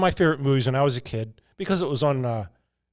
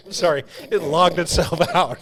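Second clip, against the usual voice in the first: cracking up while telling the story; losing composure; 4 semitones higher than usual. Real, not acted. Podcaster telling co-host about the AI logging out, helplessly laughing. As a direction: try to get it out through real laughter. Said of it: "I'm sorry to lose my composure".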